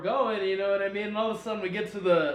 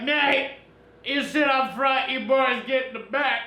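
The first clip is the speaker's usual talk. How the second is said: higher-pitched mock command; retold order; 6 semitones higher than usual. Gunner telling the boys where to sit, mock command. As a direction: imitate a friend bossing the boys around.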